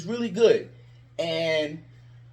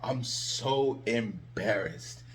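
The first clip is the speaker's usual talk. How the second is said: mopey, slow, quiet mock lament; mock whiny fan; 7 semitones lower, 7 dB quieter, much slower than usual. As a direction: parody the sulking fans. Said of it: "they're just like".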